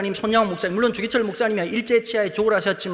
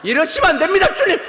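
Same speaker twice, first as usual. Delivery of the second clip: higher, louder glaring complaint; mock protest to God; 8 semitones higher, 7 dB louder than usual. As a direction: scold God half-jokingly. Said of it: "눈을 부릅뜨고". (하나님께 따지듯 높고 크게 항의)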